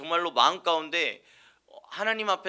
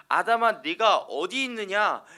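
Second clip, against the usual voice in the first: higher, louder, slow and longing; loving call; 5 semitones higher, 7 dB louder, slower than usual. Shown as a demonstration. God gently calling to hiding Adam, tender and pleading. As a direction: call Adam back like a father searching for him. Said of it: "절대 그렇게 말씀하신 게 아니에요".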